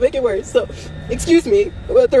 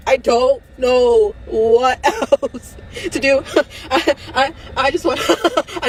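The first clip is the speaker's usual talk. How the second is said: crying laugh; 2 semitones higher, slower than usual. Real, not acted. Emotional breakdown, crying-laughing on camera.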